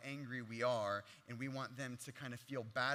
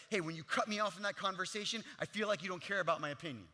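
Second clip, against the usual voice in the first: accusing; 3 semitones higher, 4 dB louder, faster than usual. Shown as a demonstration. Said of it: "saying the same thing two different ways".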